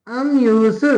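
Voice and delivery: अम न्यू सु said together, rising on सु; Korean word joined up. Shown as a demonstration. Teacher to students, reading the whole Korean word. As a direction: say अम न्यू सु in one breath. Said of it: "इसको पढ़ेंगे अम".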